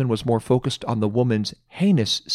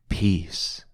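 soft echo; 5 semitones lower, 6 dB quieter than usual. Real, not acted. Echoing word softly.

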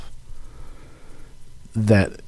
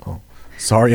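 whispered apology. Real, not acted. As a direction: hush it, a quick sorry. Hushed apology mid-conversation.

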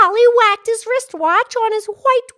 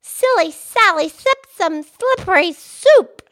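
repeating the tongue twister; 4 dB louder than usual. Shown as a demonstration. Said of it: "I spit a little bit".

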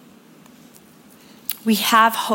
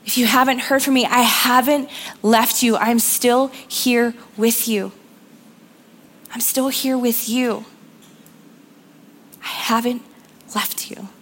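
God's tender reassurance. Retold or imitated. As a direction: speak as God comforting a frightened child. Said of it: "God's reminder saying".

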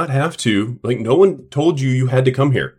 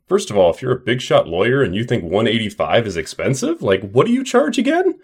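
sarcastic retort. Retold or imitated. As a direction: needle him with a sarcastic question.

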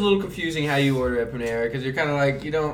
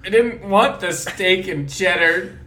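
slow, higher imitation of an upset friend; mock mad complaint; 6 semitones higher, 4 dB louder, slower than usual. Friend listing what went wrong with lunch, mock mad. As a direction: drag out the put-on complaint. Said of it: "Why are you mad?".

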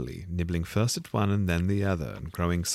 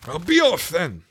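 fussy pigeon; 10 semitones higher, 8 dB louder than usual. A narrator's reading. The pigeon complains to Alice about serpents, high and fussy.

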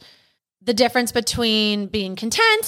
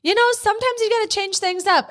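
laughing through tears; 12 semitones higher than usual. Real, not acted. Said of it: "We are currently laugh crying".

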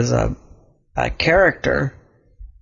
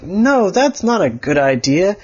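disapproving; 5 semitones higher than usual. Acted. Elliot disapproves.

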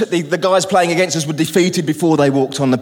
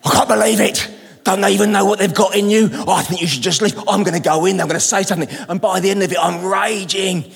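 retold fuming; 3 semitones higher than usual. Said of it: "I'm sitting there and I'm fuming".

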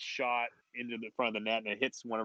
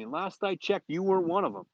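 gruff coach voice; 8 semitones higher, 4 dB louder than usual. Retold or imitated. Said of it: "He goes".

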